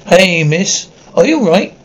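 urgent calling out. Acted. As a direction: call out to check if she's hurt. Calling to an injured stranger.

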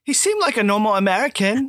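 badly faked British accent; mock British accent. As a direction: imitate a British co-host saying American. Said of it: "how would I ever say American like that".

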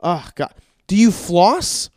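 appalled mock dentist, bursts of loud dismay; upset. Dentist demanding answers from the patient, upset. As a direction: act scandalised, breaking off in disbelief. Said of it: "they'd get upset with me".

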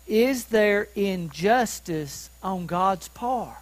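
slow, deliberate reading of the question; measured scripture reading. Real, not acted. Preacher reading Paul's question to the congregation, slow and measured. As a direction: read the verse out slowly and evenly.

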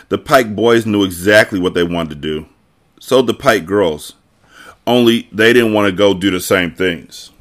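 lively reading of a novel; story narration. A narrator's reading. Narrator reads a girl's thoughts about Alex, expressive storytelling.

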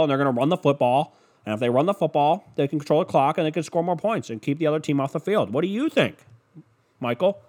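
mock analyst padding out a stock take; second pregame pundit. Analyst stretching an empty take for the host, lightly mocked. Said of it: "just the takes just rolling over every hour".

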